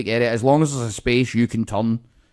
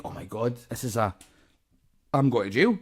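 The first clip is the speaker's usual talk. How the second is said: mock panic; 3 semitones lower, 6 dB quieter than usual. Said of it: "doesn't get out the motor like".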